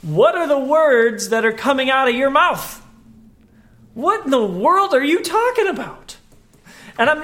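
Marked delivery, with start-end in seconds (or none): 0.0-2.8 a touch of bewildered teacher; incredulous Jesus. Acted. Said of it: "he's basically saying". 3.9-6.2 mild bewildered teacher; incredulous question. Acted. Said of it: "he's basically saying".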